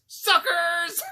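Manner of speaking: high gloating yell; mock villain line "suckers"; villain taunt. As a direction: sneer the word out. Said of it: "his last line of dialogue is".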